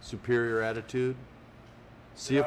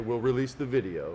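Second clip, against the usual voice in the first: normal talking voice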